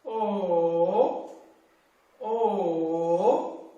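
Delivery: O drawn out in a smooth dip; smooth the O into one even curve; even third tone on O; evened dipping O. Shown as a demonstration. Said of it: "now even the whole voice".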